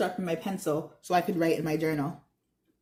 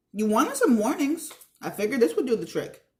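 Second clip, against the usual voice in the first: lightly voiced Mr. Mittal; 4 semitones higher than usual.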